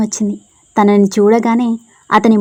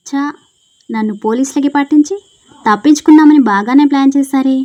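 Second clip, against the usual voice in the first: menacing accusation; 4 semitones higher, 4 dB louder than usual. Acted. Stalker confronts girls angrily.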